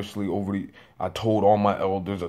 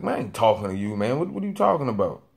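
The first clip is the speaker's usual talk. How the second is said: a bit annoyed; 3 semitones higher, faster than usual. Retold or imitated. Security guard denying he spoke to the man, mildly annoyed. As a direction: imitate a guard's mild annoyance, quickening into the question. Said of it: "he responded to me a bit annoyed".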